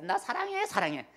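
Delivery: high, coy mock-girlish "나 사랑해"; mock sweet "I love you". Preacher mimicking women saying it, coy and high. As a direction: tease it up high like a woman cooing.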